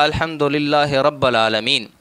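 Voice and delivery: "رب" said "rabba", with zabar instead of zer; deliberate vowel slip. Retold or imitated. Debater reciting the verse before the crowd, misreading "رب" as "rabba". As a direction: recite "رب العالمین" as "rabbal aalameen", not "rabbil". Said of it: "زیر کو زبر پڑھا ہے".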